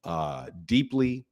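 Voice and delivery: low, slow and deep to rest a strained voice; speaking deeply. Real, not acted. Host easing his strained voice for the chat, deep and slow. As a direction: drop into the chest and take it slow. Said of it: "I am trying to speak".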